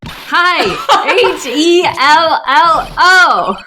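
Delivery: high, loud, slow letter-by-letter hello; spelled-out greeting. Acted. Game character demands a reply to her greeting, loudly spelled out. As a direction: call out hi, then spell hello slowly. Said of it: "Did she spell it out".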